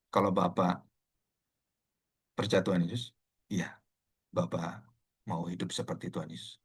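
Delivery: low, soft questioning, retold; gentle counselling. Pastor gently asks the elder about following Jesus, soft and low. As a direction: ask softly and low, with long pauses.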